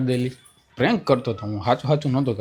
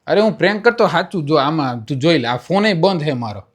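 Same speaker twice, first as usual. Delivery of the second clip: raised, loud pleading explanation; insistent protest; 4 semitones higher, 4 dB louder than usual. Real, not acted. Prankster proving the phone is off, insistent. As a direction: plead your innocence urgently.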